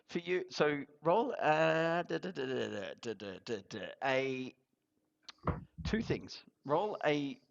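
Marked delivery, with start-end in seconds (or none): none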